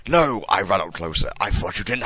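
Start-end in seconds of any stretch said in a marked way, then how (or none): 0.1-0.4 hammy stage actor. Acted. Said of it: "I shouted".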